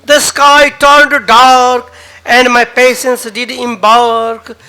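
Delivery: dramatic poetry reading with rising passion; poem recital. Acted. Poet reciting his own verse to an open mic crowd, dramatic. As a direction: recite the poem, swelling on the big lines.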